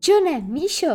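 high, loud exaggerated greeting; overly enthusiastic. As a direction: overdo the joy to cover forgetting. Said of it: "zvolal Petr přehnaně nadšeně".

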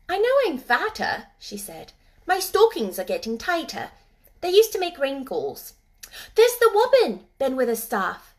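put-on a child pointing out the bird; lightly voiced girl. Mary spotting the robin for Ben, eager girl's voice.

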